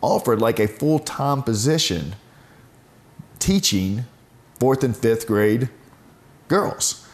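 imitating her bursting with good news; excited news. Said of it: "she goes".

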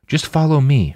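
a touch of forced confidence; mildly bold, steadying reply; put-on confidence. A narrator's reading. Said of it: "with more confidence than she felt".

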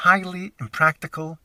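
HIGHLY picked out with extra weight; stress on highly. Real, not acted. Storyteller recalling his plea to the flight attendants, stressing "highly". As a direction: lean firmly on the word "highly". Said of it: "emphasis on the highly".

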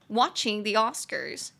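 slow, clearly spaced English; slow drilled phrase. Shown as a demonstration. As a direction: say "watching the Oscars" slowly. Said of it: "phrase drill".

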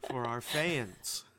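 slow, played-up enthusiasm; showy, drawn-out delivery; enthusiastic. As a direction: stretch it out for the fans. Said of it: "I'm being enthusiastic".

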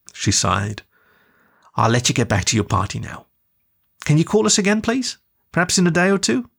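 tender mum. Acted. Mum consoling her daughter on a video call, tender. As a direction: comfort your daughter gently.

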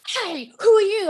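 impersonating a bouncy colleague in pajamas; energetic Roger. Retold or imitated. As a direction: play a hyper radio host barging in. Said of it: "he went".

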